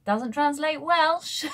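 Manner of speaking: high, loud, slow, laughing through the words; real laughter breaking into the punchline. Real, not acted. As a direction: crack up as you say it. Laughing at tardis joke.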